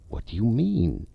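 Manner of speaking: alarmed exclamation. A narrator's reading. Narrator alarmed at the ghost's hint of death, exclaiming in shock. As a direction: blurt it out in alarm. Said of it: "I exclaimed".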